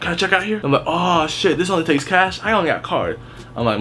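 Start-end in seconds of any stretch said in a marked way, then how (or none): 0.0-0.6 lightly imitated customer, higher pitch; mock customer question; clueless customer. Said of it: "They'll look at it and be like". 0.9-3.2 mock customer surprise, pitched up; higher-voiced customer, easing down at the end; clueless customer. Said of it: "They'll look at it and be like".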